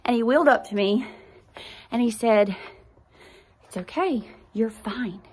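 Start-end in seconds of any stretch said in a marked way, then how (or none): 3.6-5.2 quiet, gentle imitation of the doctor reassuring; soft reassurance. Doctor soothing a sobbing mother, quiet and gentle. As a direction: hush her fears softly, a doctor calming a patient. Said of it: "he was comforting me".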